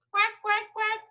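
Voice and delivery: put-on playful duck voice for kids. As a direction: quack lightly up high. Duck noises again higher.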